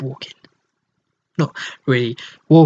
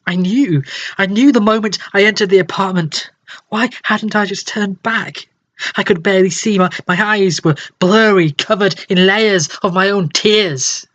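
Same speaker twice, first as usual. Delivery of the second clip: tearful distress; 4 semitones higher than usual. Acted. Narrator in tears, rising distress.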